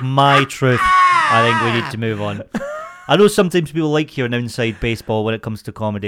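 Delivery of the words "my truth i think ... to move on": mock outraged shout. Shown as a demonstration. Co-host hamming up exasperation at comedy chat, loud slow mock shout. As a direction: yell I think we need to move on like a fake tantrum. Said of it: "If we're saying things like".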